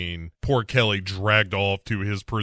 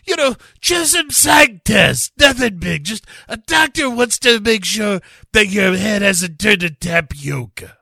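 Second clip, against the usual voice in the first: chief voice; 9 semitones higher, 6 dB louder than usual. Retold or imitated. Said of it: "He says".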